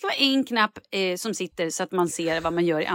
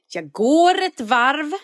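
whispered aside; 5 semitones higher, 4 dB louder, much slower than usual. Retold or imitated.

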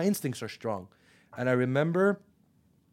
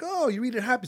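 happy read; 9 semitones higher than usual. Retold or imitated. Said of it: "If you're happy".

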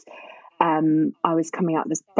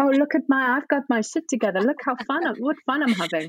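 higher, mock-cheerful act for mum; put-on happy facade; 5 semitones higher than usual. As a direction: pretend all is going brilliantly. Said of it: "I'd be the facade".

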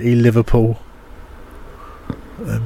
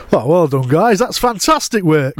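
higher, slow Yorkshire praise; broad Yorkshire well done, drawn out; Leeds accent; 5 semitones higher, slower than usual. Shown as a demonstration. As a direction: praise them like a proud Yorkshire boss. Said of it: "And then listen to this".

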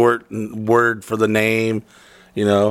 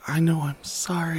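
soft, higher imitation of a humble apology; 4 semitones higher, 7 dB quieter than usual. Wife apologizing to husband for forgotten paperwork, humble soft imitation. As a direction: imitate a meek, hushed sorry. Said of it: "she humbly is like".

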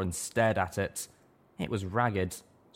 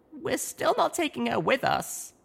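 firm; slower than usual. A narrator's reading. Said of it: "I said firmly".

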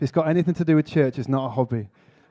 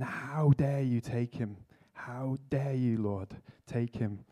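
retold shouting at God; 7 dB quieter, slower than usual. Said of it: "just shouting".

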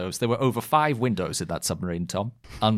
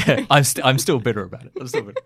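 laughing; 3 semitones higher, 4 dB louder, faster than usual. Real, not acted. Laughs, says still bitter.

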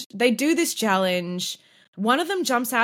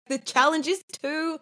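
high, drawn-out whine; whiny contestant; 6 semitones higher, slower than usual. Retold or imitated. Whining contestants.

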